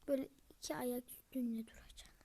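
soft, voiceless muttered plan; whisper. Real, not acted. Whispering while working out the puzzle. (fısıltıyla, kendi kendine)

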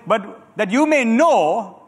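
slow, deliberate reading aloud with the church; slow scripture reading. Shown as a demonstration. Preacher reads slowly for the congregation to repeat. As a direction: stretch each word so the crowd can follow. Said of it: "read this with me".

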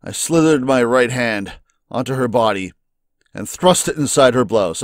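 low, even reading of the game text; story narration. A narrator's reading. Streamer reading the visual novel's narration aloud, low and steady.

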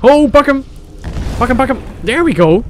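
high, loud hype; excited cheering. Real, not acted. Player cheers his shout at the targets, high and loud. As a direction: egg it on, thrilled.

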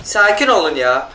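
drawn-out, slow soothing plea; slow it right down to calm everyone; slow, hushed plea for calm. Real, not acted. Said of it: "calming himself and teammates".

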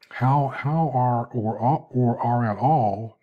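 slow words through a yawn. Real, not acted. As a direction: yawn while asking. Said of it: "man, I can't talk to that, I'm sorry".

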